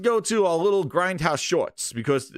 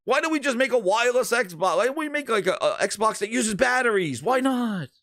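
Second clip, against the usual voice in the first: put-on higher, loose drunken babble, slowing at the end; drunk rambling; 5 semitones higher than usual. Drunk exec pitching wild ideas to the reporter, drunk rambling. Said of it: "He's like".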